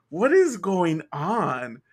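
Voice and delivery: slow, loud, drawn-out question; exasperated bafflement. Retold or imitated. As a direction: stretch out a retold baffled complaint. Baffled at classmate's noises, retold.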